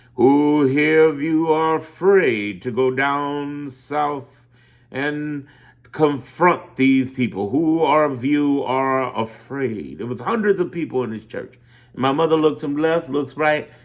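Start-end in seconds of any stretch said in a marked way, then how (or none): 0.2-10.0 very slow, deliberate delivery, every word drawn out. Retelling a speech in a church full of people: Martin Luther King-like voice. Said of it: "in that Martin Luther King-like voice".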